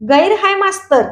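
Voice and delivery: shouted. Acted. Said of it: "पुन्हा पोरं ओरडली".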